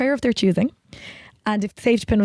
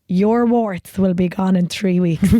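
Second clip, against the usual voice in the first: slow, firm, looking you in the eye; a healer promising the cure, slow and sure; slow solemn healer; 2 semitones lower, 4 dB louder, much slower than usual. Retold or imitated. Healer tells a patient their warts will go, slow and firm. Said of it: "to look into their eyes, okay, and to tell them".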